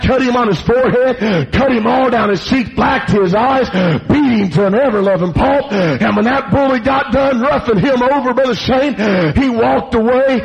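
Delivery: punched phrases with gasping breaths between; driving preacher storytelling. Acted. Preacher recounts the bully's beating, driving sermon delivery. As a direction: tell the beating in a relentless preaching cadence.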